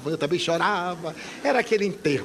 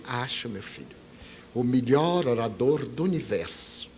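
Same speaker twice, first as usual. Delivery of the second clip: soft and lower, slow and kindly; tender mentor reply; 7 semitones lower, 3 dB quieter than usual. Retold or imitated. The spirit guide reassures the doubting young speaker, softly. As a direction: reassure him like a gentle spiritual mother. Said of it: "A senhora acha mesmo?".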